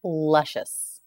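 ordinary delivery

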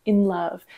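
"in love" with weak "in", stressed "love"; stress on second syllable. Shown as a demonstration. Example of an iamb for students, stress on second syllable. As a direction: slowly lean on "love" in "in love". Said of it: "second being stressed".

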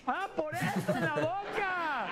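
put-on girl voice. Mocking the girl's reply.

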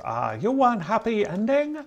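high, put-on mock Asian accent for the masseuse; hammed-up Asian masseuse accent, pitched high. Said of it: "masseuse goes".

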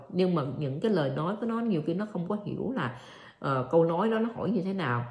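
ordinary delivery

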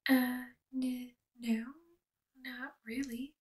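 nervous stammer; stuttering. Acted. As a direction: stumble over the words. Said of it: "you stutter".

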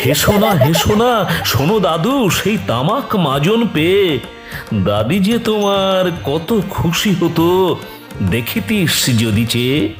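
lively grandfatherly aside within a poem; grandfather gently chiding. Acted. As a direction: recite it as an old man's fond protest. Grandfather chides his laughing grandchild.

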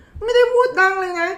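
mock defensive outburst; indignant protest. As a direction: insist you weren't loud at all. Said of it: "เราก็จะรู้สึก".

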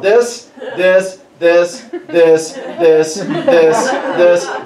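each THIS stamped out separately; emphatic listing. Retold or imitated. Crying man lists his troubles to God, emphatic. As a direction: count off grievances, THIS by THIS. Acting out his endless complaints.

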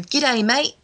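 hammed-up Australian hello; mock Australian accent. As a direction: imitate someone putting on an Australian accent. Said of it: "taking the piss out of my accent and talking Australian".

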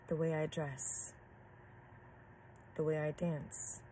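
measured poem reading with long pauses between lines; poem recitation. Acted. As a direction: recite your own poem line by line, unhurried. Reads her own poem aloud.

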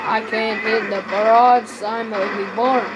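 slipping into a Russian accent; Russian-sounding accent. Real, not acted. Player complaining about bad aim, accidental Russian accent. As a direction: let a slight Russian accent creep in. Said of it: "Why do I sound Russian?".

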